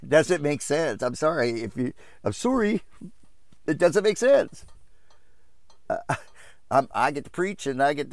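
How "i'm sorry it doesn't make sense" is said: high, incredulous squeak upward; exasperated. Real, not acted. Preacher baffled by what churches accept, high exasperated protest. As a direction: pitch it way up in disbelief. Exasperated repeat of his remark.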